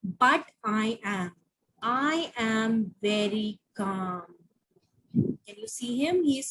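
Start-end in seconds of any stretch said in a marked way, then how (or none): 0.0-4.2 calm voice. Acted. Teacher voices calm character.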